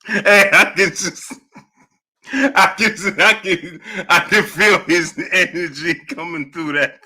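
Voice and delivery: halting speech through real laughter; breaking up laughing while talking; laughing to tears. Real, not acted. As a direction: get the words out between laughs. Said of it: "I'm literally in tears".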